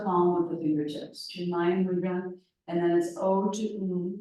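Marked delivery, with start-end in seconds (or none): 3.2-4.2 "O to U" drawn out, gliding up a little on U; slightly higher pitch. Shown as a demonstration. Teacher showing the class the chant's vowels, slightly higher pitch. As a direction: let U lift slightly in pitch and ring loudly. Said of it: "little higher pitched".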